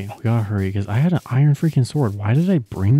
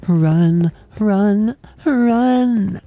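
higher, louder panicked run; being chased; 11 semitones higher, 6 dB louder, much slower than usual. Real, not acted. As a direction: yell it as you flee, rising. Fleeing the witch in game.

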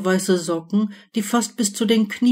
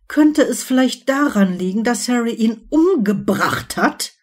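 accusing; 3 semitones higher than usual. Acted. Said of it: "rief Ginny anklagend".

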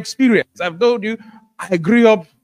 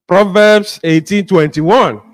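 read like an evangelist; 2 semitones lower, 6 dB louder, slower than usual. Shown as a demonstration. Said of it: "read like an evangelist".

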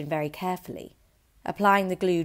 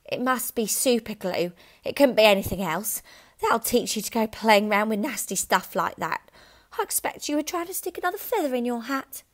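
louder, higher scolding wife; wife's voice; 5 semitones higher, 5 dB louder than usual. A narrator's reading. Wife scolding her husband, higher. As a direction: nag him smugly. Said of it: "Missus Wormwood said to him".

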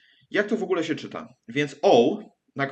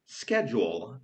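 schedule said the British way with a sh sound, slower; British accent; 4 semitones lower, 3 dB quieter, slower than usual. Shown as a demonstration. Teacher contrasting US and UK schedule, British. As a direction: say schedule like a Brit, with sh, slowly. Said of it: "a w U K mówi się".

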